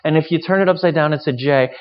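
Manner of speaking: high, loud, gushing mock enthusiasm; gushy. Preacher mocks a gushy Christmas lover, loud and high. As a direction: gush over candy canes like an overexcited fan. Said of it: "like, gushy".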